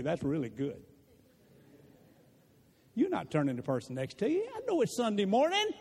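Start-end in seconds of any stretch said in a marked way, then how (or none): 0.0-0.8 congregation prompt. Shown as a demonstration. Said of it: "Turn to the person next to you and say".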